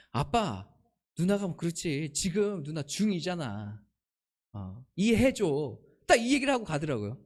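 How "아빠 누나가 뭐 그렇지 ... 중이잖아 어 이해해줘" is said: put-on understated, low and drawn-out child's plea; a hint of a child calmly excusing a sibling; lightly voiced child. Child asks dad to understand big sister, lightly voiced. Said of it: "하율이가 저한테 오더니".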